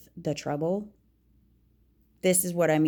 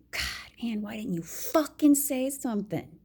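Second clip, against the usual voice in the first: whispered self-reproach, exasperated; self-scolding whisper; 5 semitones higher than usual. Retold or imitated. Scolding herself for not speaking up, whispered. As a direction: hiss it at yourself for staying silent.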